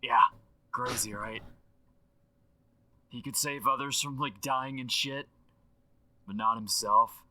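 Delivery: animated, slangy dude rambling on a voicemail; Aaron Paul impression through a phone line; excitable legend left as a phone message; voicemail effect. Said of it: "With the voicemail effect".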